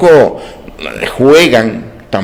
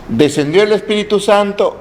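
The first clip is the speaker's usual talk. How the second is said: ordinary talk, nothing marked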